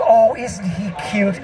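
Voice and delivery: slow, condescending mock sympathy; slow pitying coo at an old man; patronizing coo. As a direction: talk down to him like a sweet old pet. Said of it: "most of the world goes".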